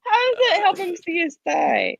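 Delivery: high, near-crying voice from laughing; tearful laughter. Real, not acted. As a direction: squeak it out through helpless laughter. Helpless reaction to crude table joke.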